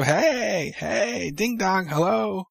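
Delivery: high, chirpy sing-out greeting; Bayley. Retold or imitated. Podcaster imitating Bayley walking up on the NWO, high and cheery. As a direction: call out a high-pitched hello to announce yourself. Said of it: "Bayley walks up".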